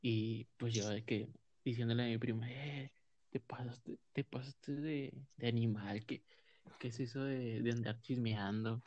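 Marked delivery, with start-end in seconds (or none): 2.5-8.8 soft, slow scolding. Retold or imitated. Scolds cousin, retold.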